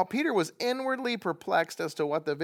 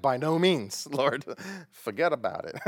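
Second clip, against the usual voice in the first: laughing refusal. Retold or imitated. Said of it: "And you're like".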